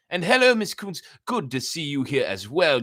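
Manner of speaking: a sudden lifted welcome; bright greeting. Real, not acted. The reader greets Miss Kuntz, who joined, with a bright lift.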